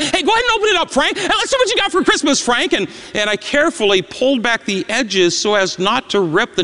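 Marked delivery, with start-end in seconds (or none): 0.0-2.7 mocking schoolboys. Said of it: "Stuart and Claire said".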